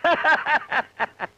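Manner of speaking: mocking belly laugh; laughter. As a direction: laugh in a quick run, tailing off. Boss laughs at his joke.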